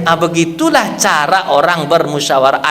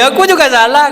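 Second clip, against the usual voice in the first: the Prophet's words; 6 semitones higher, 4 dB louder than usual. Acted. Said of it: "kata Nabi".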